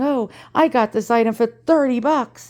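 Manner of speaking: self-mocking boast, lightly put on; playful, mildly smug bragging; mock gloating. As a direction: imitate yourself crowing over a bargain. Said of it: "Here I am, like, gloating".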